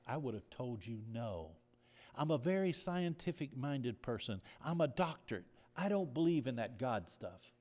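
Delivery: a mother's desperate plea, loud; impassioned plea. Retold or imitated. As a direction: cry it out to the church. Doctor's plea for God, preached.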